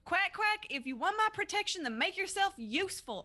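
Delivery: shouting. While fighting in a game, yelling back at another player. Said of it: "I'm going to yell back".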